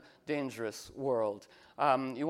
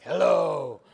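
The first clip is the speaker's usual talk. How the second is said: hello answered back from far off, louder; echoed reply; 9 dB louder than usual. Retold or imitated. The universe answering back, a louder echoing hello. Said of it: "and there's like".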